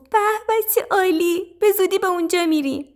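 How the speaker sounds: high, excited bird voice; delighted little sparrow. A narrator's reading. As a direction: gush eagerly, up high, rushing the end. Sparrow delighted at cherry news.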